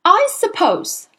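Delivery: high, slow, drawn-out sneer; sneering headmistress. A narrator's reading. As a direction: stretch it out with mock patience. Trunchbull starts sneering speech.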